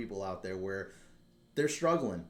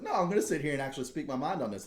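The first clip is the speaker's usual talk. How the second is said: retold anger; 6 semitones higher, 3 dB louder, faster than usual. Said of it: "I was fucking pissed".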